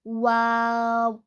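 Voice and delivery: वाव slow, lips rounded but not touching; वाव: rounded w, lips apart; Arabic waw. Shown as a demonstration. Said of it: "ना मिलाने से वाव अदा होता".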